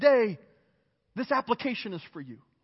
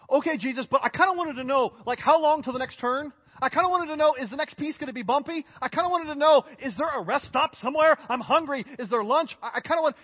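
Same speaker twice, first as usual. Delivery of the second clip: put-on higher, pestering kid on a road trip; mock whiny asking; 4 semitones higher, 3 dB louder than usual. Pastor playing a needy believer pestering Jesus, mock whiny. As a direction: nag like a restless child in the back seat.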